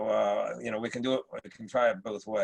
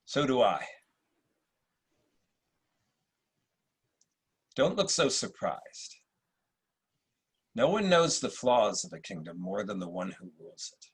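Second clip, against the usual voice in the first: supercilious Marcus Aurelius; 2 semitones lower than usual. Acted. Emperor greets Septimius at court, lightly supercilious. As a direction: play it like a British actor's Roman emperor. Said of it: "a slightly supercilious Marcus Aurelius".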